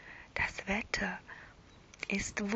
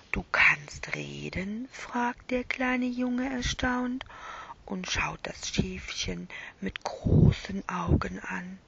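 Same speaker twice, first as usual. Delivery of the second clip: whispered bedtime story. A narrator's reading. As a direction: whisper it like lulling a child to sleep.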